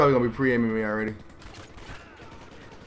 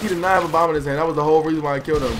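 indignant; 3 semitones higher, 6 dB louder, much faster than usual. Real, not acted. Outburst calming down.

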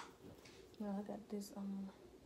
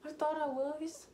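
nervous outburst; 6 semitones higher, 6 dB louder than usual. Real, not acted. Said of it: "Let me just calm down".

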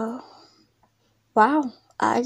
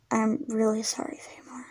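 soft whisper, almost breathless; whispered apology; 7 dB quieter than usual. Acted. Friend whispering an apology for the broken friendship. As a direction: confess it under your breath.

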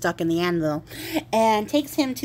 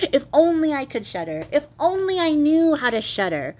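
higher, wistful whine; young king whining to himself, mock lament; 6 semitones higher than usual. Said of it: "lament and whine".

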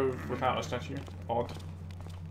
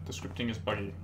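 whispering; 2 semitones lower, 5 dB quieter than usual. Real, not acted. Whispered aside while sneaking past guards.

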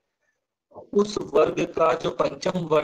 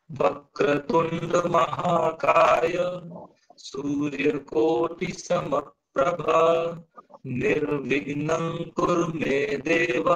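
very slow chant, pausing after each phrase; broken into phrases; much slower than usual. Shown as a demonstration. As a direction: recite in sets, long vowels, clear breaks. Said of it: "ऐसे break करके पढ़ते हैं".

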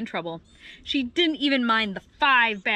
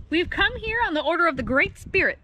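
high, louder formal proclamation; declaring; 6 semitones higher, 5 dB louder than usual. A narrator's reading. The oddball crowd to Serval, Marabou and Adder, declaring. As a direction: declare it like official envoys. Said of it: "they declared".

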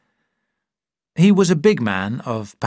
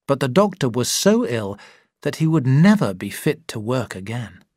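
plain reading voice

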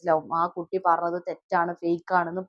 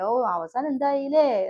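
slow, higher, louder mock sneer; mocking taunt; 5 semitones higher, 4 dB louder, slower than usual. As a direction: drag it out like a gloating neighbour. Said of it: "അങ്ങനെ കളിയാക്കിയിട്ട്". (പരിഹസിക്കുന്ന സ്വരത്തിൽ പതുക്കെ)

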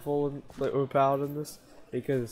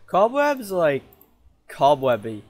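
excited gloating; 6 dB louder than usual. Real, not acted. Gloating after trap works.

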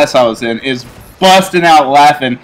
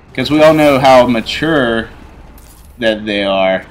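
sarcastic; 2 semitones lower than usual. Real, not acted. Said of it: "sarcasm there".

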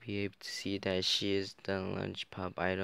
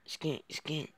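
put-on high girl voice; 8 semitones higher than usual. Girl voice continued.

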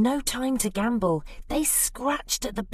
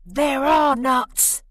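louder, higher dismayed exclamation; exclaiming; 5 semitones higher, 5 dB louder than usual. Acted. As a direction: cry out for the lost nuts. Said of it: "exclaimed Bruce".

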